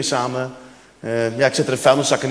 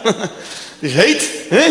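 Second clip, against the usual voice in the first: put-on Brazilian accent; 4 semitones higher, much slower than usual. Cleaner voiced, drawn out.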